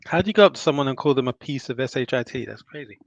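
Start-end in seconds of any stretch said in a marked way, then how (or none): 2.4-3.0 talking while chewing a burger; words muffled round a bite of food; mouth full. Real, not acted. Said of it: "Sorry, I'm just munching a burger at the moment".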